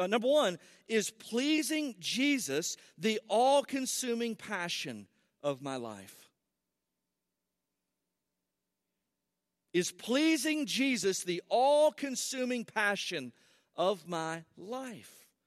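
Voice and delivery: very slow, deliberate, drawn out word by word. Walking the audience through a list of questions, talking way slower than normal. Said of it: "I'm going to talk way slower than I normally do".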